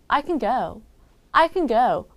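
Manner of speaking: "can" shrunk to a quick "kin" before "go"; quick reduced can. Shown as a demonstration. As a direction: glide over "can" into "go". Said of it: "네이티브가 빨리 발음할 땐". ("can"은 빨리 줄여서 "큰"처럼)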